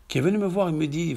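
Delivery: ordinary delivery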